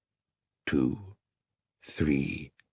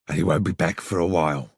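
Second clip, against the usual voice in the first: gruff voice; 3 semitones lower than usual. Acted. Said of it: "a gruff voice said".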